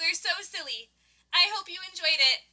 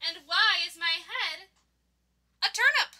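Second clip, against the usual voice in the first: confused; 3 semitones higher than usual. Acted. Gerald dreaming, puzzled.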